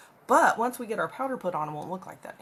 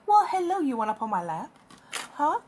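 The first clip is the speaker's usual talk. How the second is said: pet talk; 5 semitones higher than usual. Real, not acted. Greeting the cat, pet talk.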